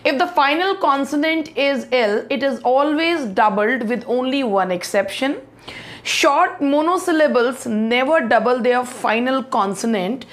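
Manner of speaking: reading the rules slowly; slow, careful dictation. Shown as a demonstration. Teacher reading spelling rules to students, slowly.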